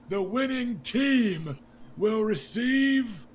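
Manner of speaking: booming, high and loud jovial king, slowed; a hearty drunk king rallying his court; King Robert. Acted. King Robert Baratheon toasting the crowd at his daughter's tourney, loud and jovial. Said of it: "And then he goes".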